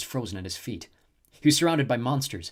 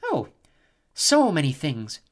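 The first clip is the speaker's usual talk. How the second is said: slow, higher, silky purr; purring snow goddess; 5 semitones higher, 6 dB louder, slower than usual. A narrator's reading. Snow goddess teasing Jason, slow silky purr. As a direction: purr it out slowly, savouring it. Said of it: "the snow goddess purred".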